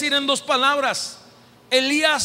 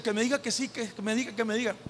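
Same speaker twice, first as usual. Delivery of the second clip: hushed, much softer pleading; hopeful girl; 3 semitones lower, 9 dB quieter, much faster than usual. Retold or imitated. Preacher imitating a girl hoping for a yes, hushed. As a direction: whisper a wish under your breath. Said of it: "la muchachita que está diciendo".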